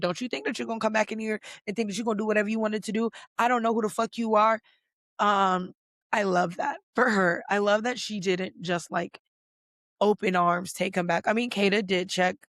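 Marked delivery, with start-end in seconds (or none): 0.0-4.6 put-on rapid, fast speech with slight Latin American Spanish accent. Recounting how she checked him when he came back, fast with a slight latina accent. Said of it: "she was speaking so fast and she was having a little accent".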